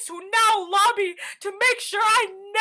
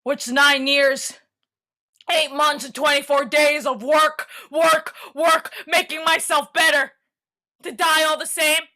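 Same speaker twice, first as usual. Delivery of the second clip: 1 bitter monologue; 3 dB louder than usual. Acted.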